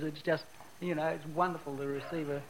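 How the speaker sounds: breathless, short of air; out of breath. Real, not acted. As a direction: speak with little breath left. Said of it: "so I guess I'm out of breath".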